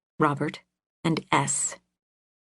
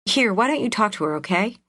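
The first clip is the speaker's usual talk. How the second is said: fast, fed-up handing over; exasperated; 5 semitones higher, faster than usual. Acted. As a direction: hurry it, clearly fed up. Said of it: "the exasperated voice returned".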